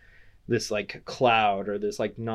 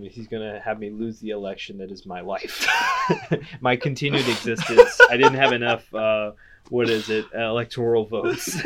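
laughing; 6 dB louder than usual. Real, not acted. Joking about losing election.

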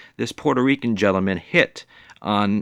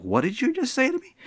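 offended woman; faster than usual. Retold or imitated. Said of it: "this look of death and be like".

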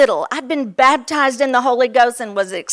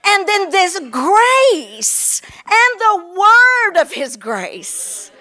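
raised, ringing preacher's proclamation; fervent preaching; 3 semitones higher than usual. Acted. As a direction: proclaim it to the whole congregation. Preaching at full force.

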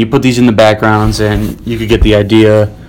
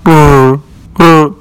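engine revving imitation; 5 semitones higher, 4 dB louder than usual. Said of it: "Here, here is cityscape".

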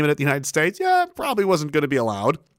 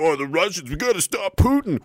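lightly voiced, pitched-up sneer; mock war hawk; 3 semitones higher than usual. Mocking the pro-war crowd, a pitched-up sneer. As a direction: parody the people shouting about Putin. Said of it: "all these people are like".

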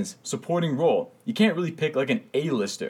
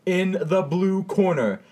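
ring announcer; 6 semitones higher, slower than usual. Pretend. Boxing-style intro of guests.

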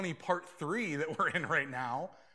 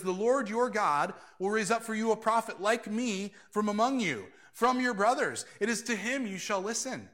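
proclaiming Moses; 3 semitones higher, 5 dB louder than usual. Retold or imitated. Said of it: "Moses says".

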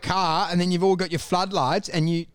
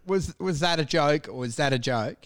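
low, straight-faced query; mock-sincere puzzled deadpan; dead-air deadpan; 5 semitones lower, 4 dB quieter than usual. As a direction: ask it low and dry after a silence. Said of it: "where you dead air it".

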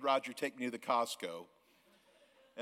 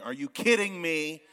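amazed disbelief; 4 semitones higher, 8 dB louder than usual. Real, not acted. Amazed at building.

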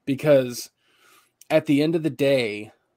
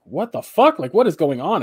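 high, loud retold "what the fuck"; baffled disbelief; 4 semitones higher, 6 dB louder than usual. Worker retelling finding the boss at work, baffled. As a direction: pitch jumps up in bewildered protest.

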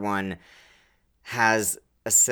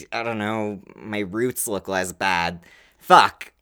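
flustered realization; 2 semitones higher than usual. Retold or imitated. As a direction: rattle off forgotten spells in a fluster. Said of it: "you're like".

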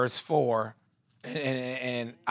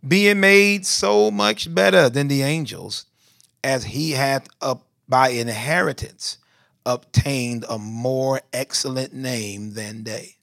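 scripture reading; slower than usual. Real, not acted. Preacher reads verse four to his flock, slow emphatic scripture reading. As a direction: proclaim it slowly, easing down toward the end.

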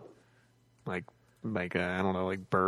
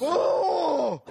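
surprised. Real, not acted. Sound clip just played.

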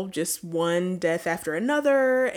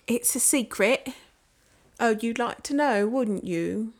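teasing; 4 semitones higher, slower than usual. Pretend. Teasing secretive taunt.

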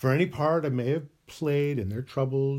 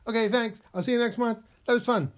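much higher, chirpy and pleased with itself; gleeful mock cheer; 9 semitones higher, faster than usual. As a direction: sing it out like a gloating villain. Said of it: "do a little dance and say".

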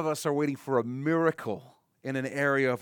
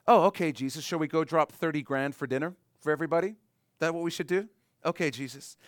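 mock sarcasm; 3 semitones higher than usual. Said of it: "they're being sarcastic with him".

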